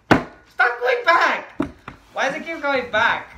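loud stretched-out frustrated complaint; frustrated yell. Real, not acted. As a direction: shout at the screen as it slips away. Character keeps sliding back in game.

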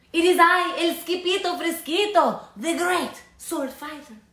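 high, loud, grand proclamation; heroic announcement. Acted. Kitty boy proclaiming himself to the dogs, heroic. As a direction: announce yourself like a swashbuckler.

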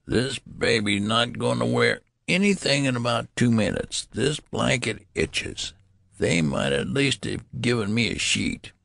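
put-on high-pitched old-man voice; grumbling old man. A narrator's reading. Old newborn fed up with itchy blanket, grumbling.

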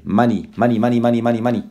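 money as "MAH-nee", rattled off; correct pronunciation. Shown as a demonstration. Teacher drilling the word for students, repeated MAH-nee. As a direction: drill money with an open first vowel and short ee. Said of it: "No digas money, ni money".

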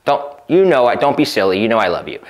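steady her, unbothered and tender; calm and reassuring. Retold or imitated. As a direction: gently reassure his girlfriend. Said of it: "being non-reactive is simply saying".

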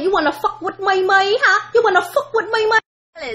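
mock confrontation. Demanding at someone who touched her money. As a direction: get in their face about money.

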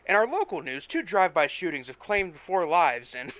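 radio news read, brisk and even; newscaster. Acted. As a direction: announce the headlines like a news anchor. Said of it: "The newscaster was announcing".

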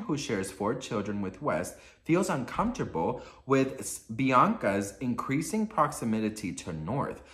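measured gossip-article reading; composed read-aloud voice. Real, not acted. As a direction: read the report out evenly, phrase by phrase.

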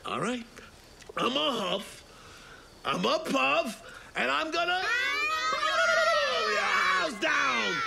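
rising to a high, slow stretched shout; wolf threatening the stick house, building to a shout; wolf building to a roar. Acted.

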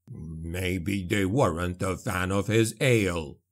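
low, slow, nasty dwarf jibe; dwarf mocks the ghouls' motive, nastily. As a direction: sneer it like a sour old dwarf. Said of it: "Gotrek said nastily".

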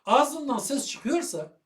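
slow and clearly voiced; Ağzından ses çıkıyorsa said slowly with a lifted, full voice; out loud. Shown as a demonstration. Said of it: "Bir şey anlatıyorsun". (sesli, yavaş ve vurgulu)

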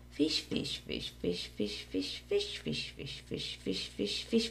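whispered fish chant. Acted. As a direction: breathe the words in a hush.

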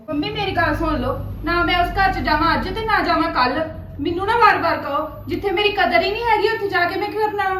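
loud, indignant outburst; a daughter refusing to go back to her in-laws, loud and indignant; angry refusal. Acted. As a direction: refuse flatly and hotly.

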